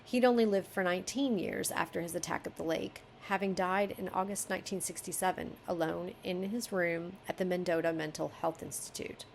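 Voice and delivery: even reading voice; story narration. Acted. Editor reading the passage to the author, story narration. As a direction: read the paragraph through as prose.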